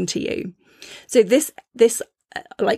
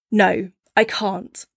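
calm firm no; slower than usual. Retold or imitated. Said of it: "really clear and confident in your truth".

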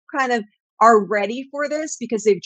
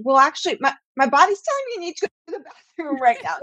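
higher, hurried student voice; quick, raised-pitch mock objection; acted schoolchild's protest; 5 semitones higher, faster than usual. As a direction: lightly play a kid explaining an urgent need. Child pleading with school in acted exchange.

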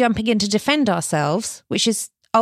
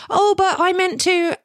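defensive protest; 10 semitones higher than usual. Retold or imitated. Default defensive response, acted quote.

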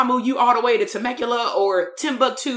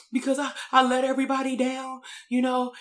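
lightly imitated upset kid, hesitant; a hint of a teen turned small child; 3 semitones higher, 4 dB quieter than usual. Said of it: "he just became a kid kid".

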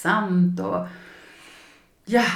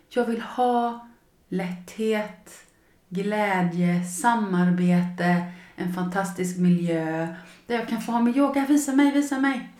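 pleading wishes. Shown as a demonstration.

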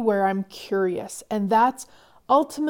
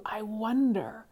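soft curious wonder; 8 dB quieter, slower than usual. Shown as a demonstration. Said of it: "I love the energy of this one".

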